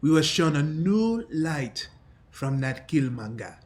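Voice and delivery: lightly voiced battle-hardened older man; accented fighter's voice, measured defiance; defiant Wakandan veteran. Captive refusing to work together, defiant character voice.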